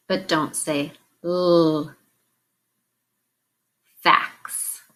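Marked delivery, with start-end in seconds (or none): 1.2-1.9 l as a long held "lll", not "el"; isolated consonant sound. Shown as a demonstration. Teacher naming the sound to delete, l said as a drawn-out "lll". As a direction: hold the l sound alone. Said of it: "which sound to delete".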